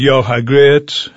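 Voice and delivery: slow American Southern drawl; lightly imitated Southern US accent, drawn out; imitated Southern waitress. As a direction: mimic a Southern waitress, stretching the words. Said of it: "the first one came up to me".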